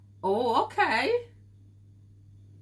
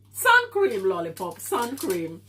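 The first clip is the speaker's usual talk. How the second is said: teasing call; 4 dB louder than usual. Real, not acted. Streamer teases a viewer about the sun, calling out loudly. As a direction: playfully scold her to put on sun cream.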